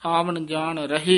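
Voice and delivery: short stop after ਰਹੇ with a rise; brief halt. Shown as a demonstration. Teacher demonstrating the halt. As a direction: hold at ਰਹੇ, then go on. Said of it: "ਇੱਥੇ ਠਮਕ ਲਾ ਦੇਣੀ ਹੈ".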